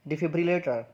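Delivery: डिफिब्रिलेटर in full, "di-fib-ri-lay-ter"; careful model of डिफिब्रिलेटर, falling at the end; model pronunciation. Shown as a demonstration. Teacher models a hard word for learners, model pronunciation. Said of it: "इस word की pronunciation है".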